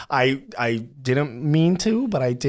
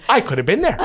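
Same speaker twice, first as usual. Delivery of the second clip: exclaimed with a laugh; half-laughing at a missed chance; laughing lament; rising regret; 7 semitones higher, faster than usual. Retold or imitated. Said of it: "I'm going".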